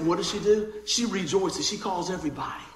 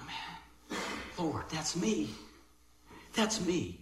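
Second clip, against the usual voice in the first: hushed, sinking to a near whisper at first; humbled confession; 2 semitones lower, 9 dB quieter, much slower than usual. Retold or imitated. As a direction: softly admit it to God. Humbled response to the parable.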